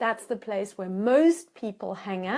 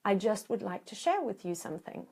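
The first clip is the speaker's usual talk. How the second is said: calm reassurance. Shown as a demonstration. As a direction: soothe them, take your time. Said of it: "So you say".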